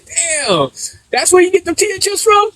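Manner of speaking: high, wide-eyed mock amazement; amazed realization. Retelling the moment he discovered tortilla chips, amazed and high. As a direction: act like it just blew your mind.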